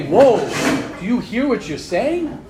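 startled whoa. Retold or imitated. Warning oneself mid-quote.

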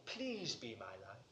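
low, very soft imitated prayer; tentative plea. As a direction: plead quietly, without assurance.

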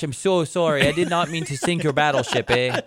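put-on Canadian accent. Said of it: "despite my perfect Canadian accent".

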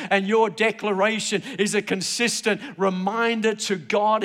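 emphatic pulpit declaration; forceful preaching. Real, not acted. Preacher urges congregation to hold on to God's promise, forceful preaching. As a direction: preach it with driving conviction.

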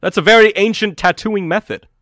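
high, loud, lofty goblin expert; genteel goblin connoisseur; regal goblin, impressed. Acted. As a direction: marvel grandly at an old technique. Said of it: "he speaks with such, like, regality".

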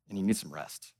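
very low, soft delivery; hushed consoling. Real, not acted. Preacher to the worn-out after a sigh, low and hushed. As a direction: drop right down, low and gentle.

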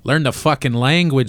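lightly voiced Chicago tough guy. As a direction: tell him off in a Chicago accent. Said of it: "a guy from Chicago being like".

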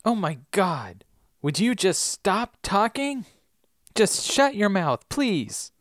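pleading to make her stop talking; upset Willow scolding. Acted. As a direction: Willow telling Anya to shut up, exasperated. Acted Willow scolding Anya.

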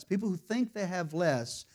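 "think" lifted above the words around it; stress on think. Real, not acted. Preacher restating his point to congregation, stress on "think". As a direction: repeat it with "think" emphasized. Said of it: "I emphasize that word think".

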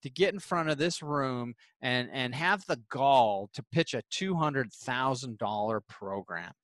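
a hint of an old man's indignant outburst; mock angry yell. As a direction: imitate an offended old man snapping at a kid, half-hearted. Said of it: "almost started yelling at him".

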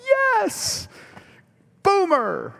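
high, loud cheering shout; a playful imitated stadium whoop; mock fan cheer. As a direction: cheer like a rival fan won over. Rival fans cheering for OU.

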